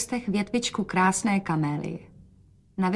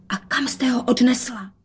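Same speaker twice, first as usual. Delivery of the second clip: whisper; 4 semitones higher than usual. A narrator's reading. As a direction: whisper it secretly. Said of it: "dodala šeptem". (šeptem)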